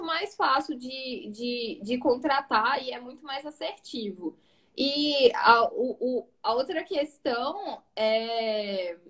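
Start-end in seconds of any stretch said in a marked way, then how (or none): 4.8-9.0 trailing off. Real, not acted. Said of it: "Perdi total o que eu ia falar".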